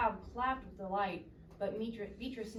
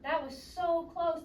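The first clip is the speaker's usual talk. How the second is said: higher, louder, slowed phew of relief; relieved gasp; 8 semitones higher, 7 dB louder, slower than usual. Acted. Beatrice nearly dropping eggs, relieved and higher, louder. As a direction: breathe it out like you just escaped disaster. Beatrice thinks after near fall.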